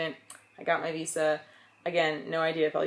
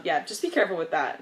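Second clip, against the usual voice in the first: laughing warning; faster than usual. Real, not acted.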